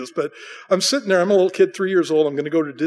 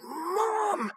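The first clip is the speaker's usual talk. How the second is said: put-on much higher, slow child's wondering call; little kid; 9 semitones higher, much slower than usual. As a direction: call to mom like an amazed three-year-old. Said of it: "I'm like".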